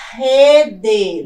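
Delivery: Rede split, loud long RE, then full DE; stress on first syllable. Shown as a demonstration. Teacher shows a paroxytone, Rede with loud stressed RE. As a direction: push out the RE of Rede. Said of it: "Palavra rede".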